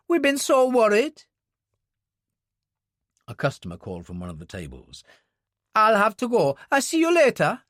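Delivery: the worried wife asks after Jenny; Mary, worried wife. Acted. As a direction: voice a worried mother figure asking. Voices Mary, hurried.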